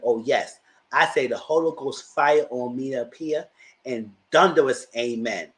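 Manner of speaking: declaiming a fierce mama's message, slow and emphatic; dramatic read of a mother's post. Acted. Reading the mother's post to her viewers, dramatic declaiming. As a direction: read it like a furious church mother calling down fire. Reads Wendy's mom's post aloud.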